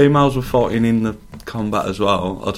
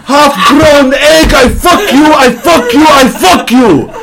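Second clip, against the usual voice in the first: high, loud mock-Serbian ranting, laughing through it; a hammed-up shouting footballer losing it; furious Serbian rant; 12 semitones higher, 5 dB louder than usual. Vidic rants at his tribe, high, loud and half-laughing in a mock Serbian accent. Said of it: "there's a fight between Dogs and Vidic".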